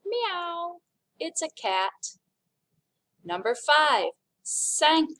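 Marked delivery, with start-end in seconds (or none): 0.1-0.8 playful meow, pitched higher; cat meow. Shown as a demonstration. Teacher comparing quatre to a cat meow, playful. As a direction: mew like a cat. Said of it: "which kind of sounds like".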